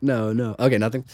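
giggly late night call. Pretend. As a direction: coo like you can't bear to hang up first. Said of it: "I feel like that's what you guys".

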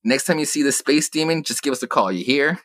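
lightly hammed-up Nixon brushing him off; Nixon impression. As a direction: play a dismissive president, half-joking. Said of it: "Nixon being like".

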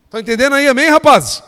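loud, high call to the congregation; rallying shout. Real, not acted. Preacher checks the lads understand, rallying shout. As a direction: belt it out to get an amen. Demands amen from the men.

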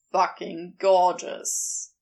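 low, slow, relishing murmur; low pleased Crowley; Crowley, satisfied. Acted. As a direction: savour it like a find.

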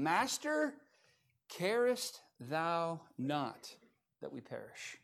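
drawn-out, very slow plea; slow scripture quote. Retold or imitated. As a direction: stretch each word of "carest thou not" slowly, fading at the end. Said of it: "it says".

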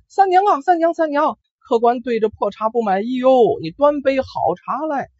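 put-on old granny yelling high into the back room; high-pitched call to the back of the tea shed; calling out loud. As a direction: shout for Sanniang from out front. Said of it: "朝里面大喊".

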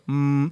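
closed-mouth resonant hum; demonstrated hum. Shown as a demonstration. Telling cohost to plug his ears, demonstrated hum. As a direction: hold a plain hum to test the echo. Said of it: "plug your ears and go".

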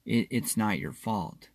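soft and quiet, heartfelt; sincere reassurance. Real, not acted. Therapist speaking directly to a hurting listener, softly and sincerely. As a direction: say it gently as if they lean on your shoulder. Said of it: "I really am saying to you".

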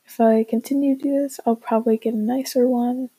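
tinny earbud microphone sound; low quality stream. Real, not acted. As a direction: cheap earbud mic recording. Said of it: "Apologies for the sound quality on my microphone".

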